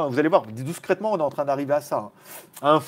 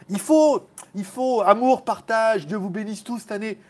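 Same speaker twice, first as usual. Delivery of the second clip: mock preacher; 6 semitones higher than usual.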